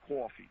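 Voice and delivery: COFFEE mimicked as cwawfee; mock cwawfee; imitated W in coffee. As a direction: copy the accent, coffee with a w glide. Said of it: "you throw a W in there".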